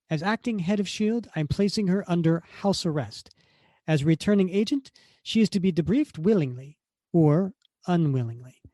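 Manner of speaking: female Italian voice. Acted. Reader as Contessa ordering house arrest, commanding Italian accent. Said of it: "I have to do a female Italian voice".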